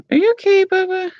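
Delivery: high, cooing voice to the pet; pet talk. Real, not acted. Owner checking on her pet, high and cooing.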